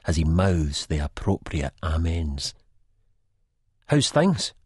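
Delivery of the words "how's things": prompting. A narrator's reading. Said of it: "I prompt".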